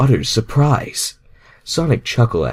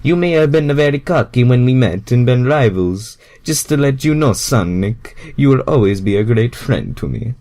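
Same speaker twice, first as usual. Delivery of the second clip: put-on Mario reassuring his old rival; 3 semitones higher, 4 dB louder than usual. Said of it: "let me restart that line".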